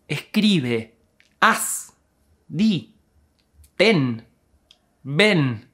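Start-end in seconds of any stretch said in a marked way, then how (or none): none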